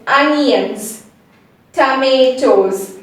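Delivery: "onions" and "Tomatoes" slowly, each ending in a Z sound; slow "ah-nyanz", "tuh-may-toz". Shown as a demonstration. Teacher shows the Z sound at the end, slow careful pronunciation. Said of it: "this Z sound".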